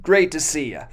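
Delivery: loud, high, joyful "Hey, Boaz"; happy greeting. Pretend. Workers greet their kind boss Boaz with a loud, glad call. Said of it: "No, it's".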